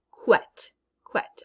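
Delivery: QUET as a short "kwet", twice; crisp "kwet" with a clear w glide; isolated syllable. Shown as a demonstration. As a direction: sound out QUET alone. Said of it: "in the second syllable".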